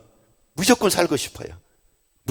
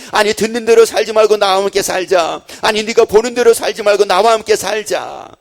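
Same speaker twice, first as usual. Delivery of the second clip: louder, fervent sermon delivery building to a high plea; full-force preaching; 4 semitones higher, 6 dB louder than usual. Acted. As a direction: preach it, pressing the love home. Climactic preaching, repeated refrain. (열정적으로 외치는 설교)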